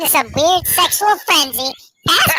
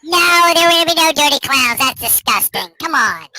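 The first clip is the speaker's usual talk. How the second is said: chipmunk voice; 5 semitones lower than usual. Pretend. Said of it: "my chipmunk voice".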